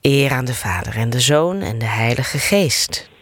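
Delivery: measured, rhythmic prayer recitation; rosary prayer. Acted. Leader reciting the rosary with listeners, steady prayer cadence. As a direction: recite the Hail Mary as a familiar chant. Leads the Glory Be.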